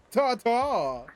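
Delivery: high, loud singsong farewell; mocking sing-song goodbye. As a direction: wave them off with a sneer.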